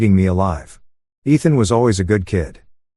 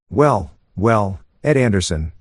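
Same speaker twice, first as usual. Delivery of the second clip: a hint of a deep, mocking greeting; slower than usual. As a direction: sneer it lightly, like a smug old rival. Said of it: "his voice is deep, almost mocking".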